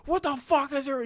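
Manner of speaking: hammed-up outrage from the parked car; retelling an angry stranger's yell; imitated angry yell. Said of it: "he's yelling at me".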